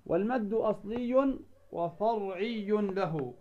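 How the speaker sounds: slow, measured recitation of verse; slow chanted recitation of a teaching poem. Acted. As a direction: recite each verse slowly and evenly. Requotes the poem.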